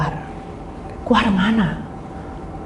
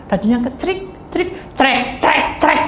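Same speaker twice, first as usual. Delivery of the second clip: imitated rattling sound; 5 semitones higher, slower than usual. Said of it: "suaranya makin keras".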